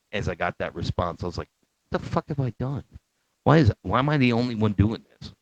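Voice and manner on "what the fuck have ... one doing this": high-pitched retold disbelief; half-joking "what have I done" panic; mock dismay. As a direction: wail it as a regretful inner thought. Retells his dismayed realisation.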